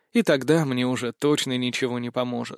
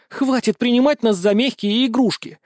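higher, louder snarling rebuke; growled rebuke; 8 semitones higher, 4 dB louder than usual. A narrator's reading. Ustinya rebuking her master, snarling and raised. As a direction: snarl it at him, fed up. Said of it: "прорычала Устинья".

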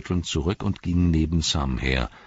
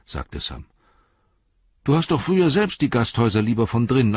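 much higher and louder, scolding; indignant Sam; 10 semitones higher, 6 dB louder than usual. Acted. Sam shaming Robin, indignant. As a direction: shame him with mock outrage.

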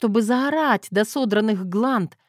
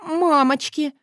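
horrified repeat; 7 semitones higher, 4 dB louder, slower than usual. A narrator's reading. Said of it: "повторила я".

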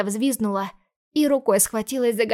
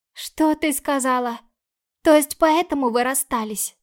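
put-on higher and louder, anxious girl; frightened little sister; 5 semitones higher, 4 dB louder than usual. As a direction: pepper her sister with scared questions. Sister reacts to lost flat.

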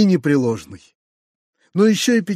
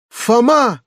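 higher, louder cry of the name in rapture; ecstatic cry; 6 semitones higher, 4 dB louder than usual. A narrator's reading. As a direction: call out to Foma overjoyed. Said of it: "вскричал дядя в исступлённом восторге".

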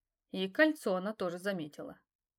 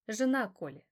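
ordinary talk, nothing marked

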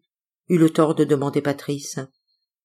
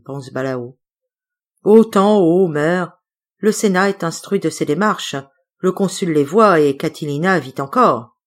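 mild schoolboy oration with grand gestures; a boy reciting Cicero's speech at a tribune; tribune declamation. A narrator's reading. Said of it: "faisant des gestes comme à une tribune".

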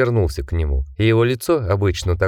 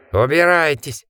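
roared; 6 semitones higher than usual. A narrator's reading. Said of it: "проревел Джек".

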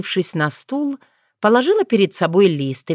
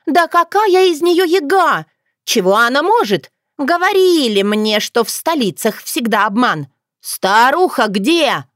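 put-on high, agitated girlish ranting; unappeased indignation; 7 semitones higher, 3 dB louder than usual. A narrator's reading. Dunya doubting the yaga to her face, high and indignant. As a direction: rant on, pitched high, incredulous. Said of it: "не успокаивалась та".

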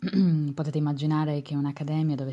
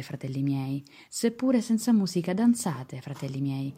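theatrical swelling poetry reading. Acted. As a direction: declaim it with rising passion. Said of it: "vi leggo una poesia".

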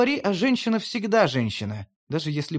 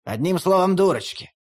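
angry retort. Acted. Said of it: "зло бросил Фенрир".

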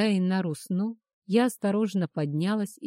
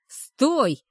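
higher, louder threatening bark; menacing bark; 6 semitones higher, 6 dB louder than usual. A narrator's reading. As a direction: bark it to stop her. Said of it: "угрожающе рявкнул оборотень".

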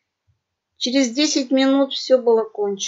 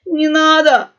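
loud, higher howl on «надо»; howling plea; 6 semitones higher, 9 dB louder, slower than usual. A narrator's reading. Pug brothers begging the cat pirate, howling. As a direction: cry out begging not to be harmed. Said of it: "взвыли тут же братья".

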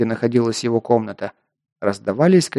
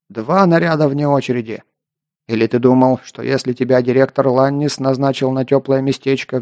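gruff scolding. Acted. Sergeant punishes recruit.

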